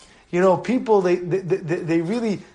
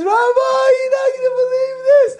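high, loud overexcited; excited shout; 4 dB louder than usual. Retold or imitated. Teddy calling the rabbi with news, shouting. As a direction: blurt out big news. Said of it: "He says".

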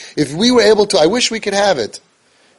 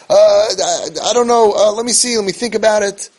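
hesitant parent; 5 semitones higher than usual. Retold or imitated. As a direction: stall like a parent who won't commit. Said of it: "you go".

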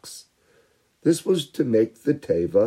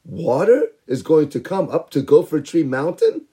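mocking laughter; 6 semitones higher than usual. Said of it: "They all laughed at Noach".

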